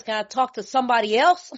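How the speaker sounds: half-laughing plea, words breaking into laughter; laughing through the joke's last line; laughing punchline. Retold or imitated. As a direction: deliver the punchline while laughing. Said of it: "The man says".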